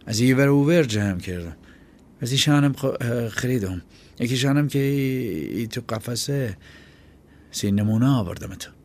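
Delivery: put-on high, hesitant boy's voice bluffing; a scared kid trying to sound tough; nervous boy. Chaghak stammering his story.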